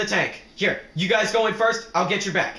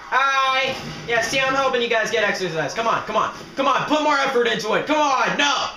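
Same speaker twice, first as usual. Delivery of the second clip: raised, higher-pitched pep shouting; mock coach urging; 5 semitones higher than usual. Player helping zombies get exercise, mock coach urging. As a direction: goad them on like an exercise coach.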